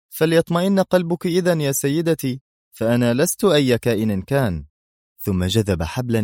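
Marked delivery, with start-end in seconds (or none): 0.1-4.7 sarcastic. A narrator's reading. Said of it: "ابتسم أدهم بسخرية قائلًا".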